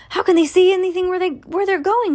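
high-pitched rushed outcry; storybook shriek. A narrator's reading. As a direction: shriek it lightly as a panicked passenger. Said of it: "shrieked Violet Beauregard".

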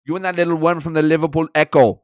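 loud, confrontational manager impression; Thomas Frank. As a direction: fling a mock insult in a German accent. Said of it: "he can be very confrontational".

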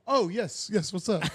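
high, mock-surprised reply; feigned innocence. Passenger pretending not to notice flight attendant, feigning innocence.

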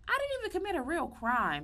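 very high, fast, exasperated; protesting she shouldn't even be there; indignant protest. Retold or imitated. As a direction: squeal it out in disbelief. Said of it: "I'm like".

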